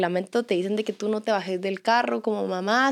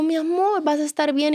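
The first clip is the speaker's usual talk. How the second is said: soothing mother; 5 semitones higher than usual. Retold or imitated. Mother soothing crying daughter.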